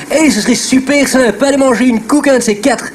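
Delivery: snooty Brussels Uccle accent; posh Uccle accent. Shown as a demonstration. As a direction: talk like an Uccle aristocrat with your neck stretched. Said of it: "ils parlent un peu comme ça avec le cou tendu".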